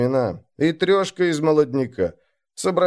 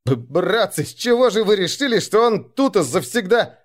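teeth chattering; 7 semitones higher than usual. Acted. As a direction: stammer it out through fear. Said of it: "зуб на зуб не попадал". (испуганно, срываясь повыше)

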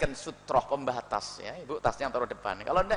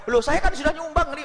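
higher, indignant donor voice; mock protesting donor; 9 semitones higher than usual. Preacher imitates a donor insisting he already gave, higher. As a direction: act the offended giver.

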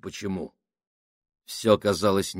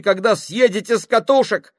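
high, loud breathless shout; gasping; 13 semitones higher, 10 dB louder than usual. Acted. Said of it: "задыхаясь".

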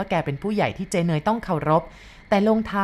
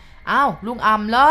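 loud, higher, drawn-out call; 5 semitones higher, 6 dB louder, slower than usual. A narrator's reading. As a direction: call out a question from the shadows. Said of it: "เสียงชาวไร่ร้องถามจากมุมมืดบอก".

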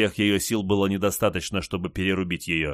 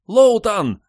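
very high, loud cry of his name; frantic scream; 14 semitones higher, 10 dB louder than usual. A narrator's reading. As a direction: scream out to someone trapped. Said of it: "закричала Большая Барбара".

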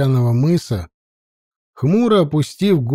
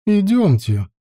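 put-on sharp call to the girls; 6 semitones higher than usual. A narrator's reading. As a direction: call them to follow. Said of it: "громко окрикнула".

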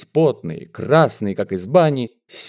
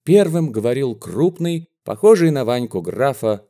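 usual speaking voice

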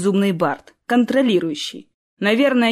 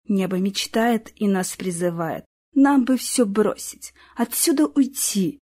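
song lyrics recited. A narrator's reading. Elka singing her own song about the sky, recited gently. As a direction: read the song verses like a heartfelt poem.

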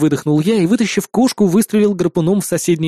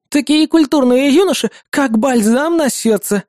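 put-on delighted old lady; 7 semitones higher than usual. A narrator's reading. Old lady praising the polite young men, high and delighted. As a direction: coo with delight. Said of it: "восторженно произнесла одна".

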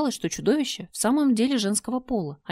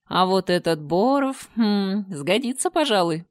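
slow, savoring creature voice; relishing the next meal; monster voice; 3 dB louder, slower than usual. Acted. Чудовище выбирает добычу. (чудовище смакует будущую добычу)

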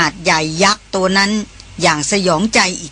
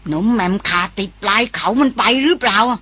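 put-on old villager shouting. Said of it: "ร้องถามเอะอะมาว่า".

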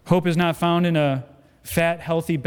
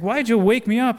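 lightly acted, higher-pitched complaint; voce di Jesus svegliato; 5 semitones higher than usual. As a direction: play someone just woken up, pitch raised. Jesus woken by panicking disciples.

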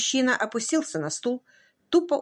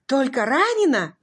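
"Только ранена?" raised high and louder in disbelief; stunned disbelief; 5 semitones higher, 4 dB louder than usual. A narrator's reading. Husband echoing the doctor's words, stunned disbelief. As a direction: echo "Только ранена?" as if it can't be true.

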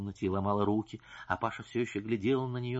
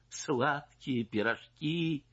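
slow, mocking echo; scornful grin; 5 semitones higher, much slower than usual. Wife mocking the singer's excuse, slow scornful echo. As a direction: sneer back her words. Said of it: "усмехнулась незнакомка".

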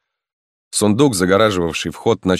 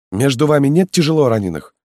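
put-on higher, urgent young man's voice; a loyal lad pressing his lord to hurry; eager young peasant; 9 semitones higher, 4 dB louder than usual. Halmalo urges the marquis to flee, high and eager.

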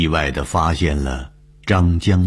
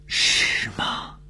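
startled exclamation; 4 dB quieter than usual. A narrator's reading. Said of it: "东风惊叫了一声".

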